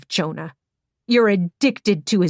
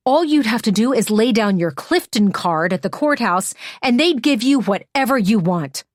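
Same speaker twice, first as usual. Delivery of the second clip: angry lecture; 3 semitones higher, 4 dB louder than usual. Acted. Hannah lists what Emmy could have done.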